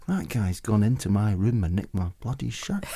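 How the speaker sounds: Glaswegian muttered indignation; Glaswegian accent. Retold or imitated. Indignant guest thinks it in a Glaswegian accent. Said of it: "the Glaswegian came out of me".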